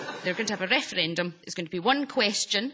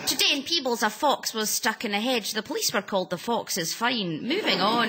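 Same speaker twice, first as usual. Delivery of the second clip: lightly voiced regional TV newsreader, laughing; mock news anchor. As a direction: read it like a small local news bulletin. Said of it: "I feel like the regional news desk at S T V".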